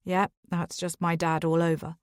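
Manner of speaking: gritted teeth, tight jaw; through gritted teeth. Acted. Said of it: "replies through gritted teeth".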